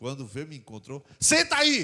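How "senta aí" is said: yelling, higher and louder. Retelling how someone ordered the speaker to sit down: imitating someone yelling. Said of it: "foi gritando".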